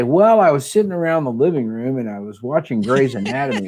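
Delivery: mock Southern accent. Applicant pitching a Grey's Anatomy story to admissions, mock Southern accent. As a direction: playfully imitate a naive applicant with a Southern accent. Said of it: "I went all Southern with my accent".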